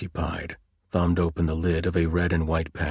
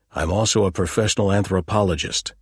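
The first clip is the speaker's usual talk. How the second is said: hotly; 3 semitones higher, 3 dB louder than usual. Acted. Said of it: "he said hotly".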